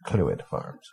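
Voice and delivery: "Clwyd" said as "CLOO-id"; Welsh name demo. Shown as a demonstration. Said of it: "There's no vowels in there".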